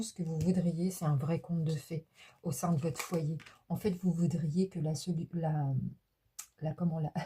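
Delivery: normal talking voice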